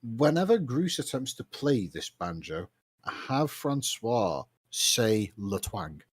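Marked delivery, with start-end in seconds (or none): 5.4-6.0 French accent. Shown as a demonstration. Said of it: "in a French accent".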